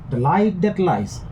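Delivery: slow line with "light" and "lies" stressed. Shown as a demonstration. Teacher scanning a line of verse, stressing "light" and "lies". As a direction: lean slowly on "light" and "lies". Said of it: "light and lies will be stressed".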